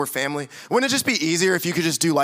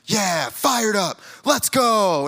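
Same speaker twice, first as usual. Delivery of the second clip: mock hype; much slower than usual. Mock hype pep talk.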